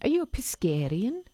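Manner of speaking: put-on South African accent. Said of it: "say that with a South African accent".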